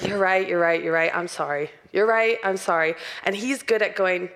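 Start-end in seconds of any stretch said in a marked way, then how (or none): 0.0-1.7 rapid-fire token agreement, falling away; placating apology. Retold or imitated. Wife giving in to husband to end the fight, glib and placating. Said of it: "I just want it to be over". 1.9-2.9 hurried token apology at normal volume; glib apology. Retold or imitated. Wife wanting the fight over, glib apology to husband. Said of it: "I just want it to be over".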